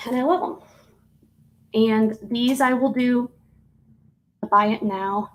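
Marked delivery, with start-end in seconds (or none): 1.7-5.3 talking through hiccups; words broken by hiccups. Real, not acted. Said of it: "Excuse me, of the hiccups".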